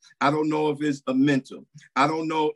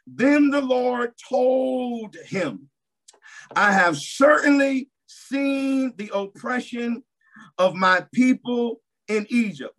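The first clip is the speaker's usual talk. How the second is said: high, slow, booming voice of God; a solemn divine pronouncement; 5 semitones higher, slower than usual. Acted. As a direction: proclaim it as the Lord himself. Preacher voicing God's words.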